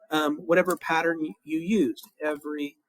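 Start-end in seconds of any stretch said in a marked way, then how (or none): 2.2-2.8 slow dictation. Shown as a demonstration. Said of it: "you would write".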